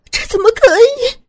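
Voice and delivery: high, loud shocked cry; 1 horrified protest. A narrator's reading. Sister horrified by the gunman's demand, high shocked cry. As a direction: recoil in horror.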